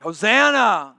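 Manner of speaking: mock crowd cry of Hosanna; lightly shouted Hosanna. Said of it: "They're shouting it out".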